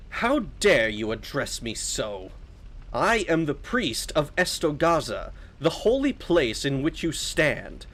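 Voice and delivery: slow, affronted holy figure; measured, imperious priest voice; haughty priest. Acted. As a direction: rebuke an insolent child with stately weight. Voices priest of Estogaza in game.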